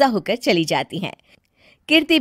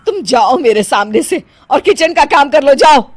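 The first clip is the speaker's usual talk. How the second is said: louder, commanding dismissal; angry; 2 semitones higher, 5 dB louder than usual. Acted. Mother-in-law sending bride to kitchen, angry. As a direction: order her out.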